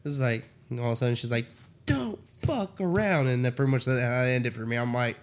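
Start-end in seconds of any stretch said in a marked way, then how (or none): 1.8-3.3 higher, drawn-out scolding; slow, stretched put-on threat; mock warning. Woman suddenly warning the guy in the comic, mock scolding.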